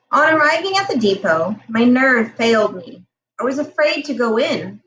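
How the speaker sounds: story narration. A narrator's reading. Reads novel chapter aloud.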